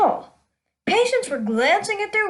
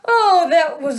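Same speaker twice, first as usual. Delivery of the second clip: laughing; 4 semitones higher, 4 dB louder than usual. Real, not acted. Still laughing after joke.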